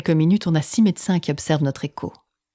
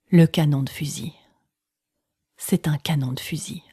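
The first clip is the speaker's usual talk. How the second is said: whispering. Retold or imitated. Sees the heart defect on screen.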